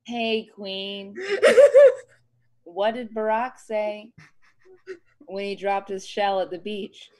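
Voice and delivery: low, measured first-lady impression, long pauses; Michelle Obama. Friend repeating the joke line on request, low first-lady impression. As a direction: take it down low and unhurried. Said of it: "Give me your Michelle Obama impression".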